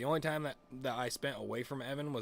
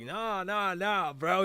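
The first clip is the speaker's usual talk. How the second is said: loud, higher imitation of friend objecting; mock protest; 8 semitones higher, 7 dB louder, much slower than usual. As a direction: cut in as the protesting buddy. Friend objects in retold quarrel.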